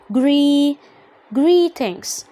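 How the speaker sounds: GREETINGS with a long ee. Shown as a demonstration. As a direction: stretch the "gree" in "greetings" as a long ee. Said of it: "يعني هطلع صوت إي". (نطق greetings بصوت إي طويل)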